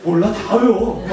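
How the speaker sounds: put-on loud, very slow matter-of-fact kid; blunt student reply. Teacher imitating a student's blunt answer, loud and slow. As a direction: drag it out flatly like a kid. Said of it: "그랬더니".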